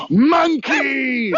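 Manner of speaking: mock commanding call to a crowd. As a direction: call the whole troop to attention. Calling out to the troop.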